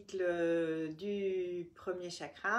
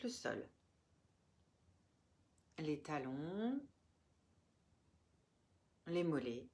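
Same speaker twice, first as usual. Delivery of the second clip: measured meditation voice with long pauses between phrases; guided relaxation. Real, not acted. Yoga teacher guiding listeners through the body, calm guided relaxation.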